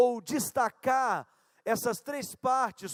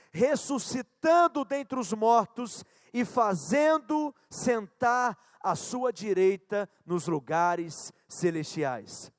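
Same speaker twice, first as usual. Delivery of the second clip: scripture reading; 3 dB louder, slower than usual. Acted. Reads scripture aloud.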